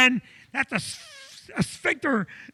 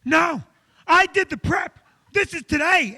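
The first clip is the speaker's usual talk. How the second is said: insistent protest; 4 semitones higher than usual. Retold or imitated. Patient argues with the nurse.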